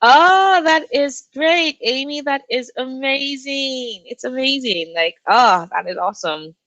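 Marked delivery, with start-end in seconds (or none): 0.0-4.9 high, slow, drawn-out delight; gushing praise. Real, not acted. Streamer gushing over a reader's page count. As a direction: draw out the praise like a proud friend.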